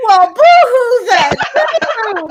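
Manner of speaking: mock wail at being made to cry. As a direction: fake sobbing to play along. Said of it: "don't try to make me cry".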